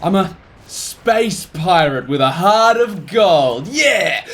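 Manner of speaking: slow, hammy pirate boast; lightly voiced heroic space pirate. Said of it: "trying to get in character".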